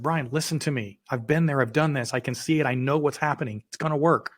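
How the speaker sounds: confident insistence; insistent reassurance. Retold or imitated. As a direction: convince him it will work. Partner insists in retold scene.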